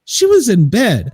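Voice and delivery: yelling across the room. Real, not acted. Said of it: "As he yells across the room".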